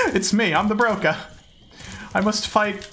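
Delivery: put-on light British accent, playful; a hint of a British villain. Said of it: "Or the broker".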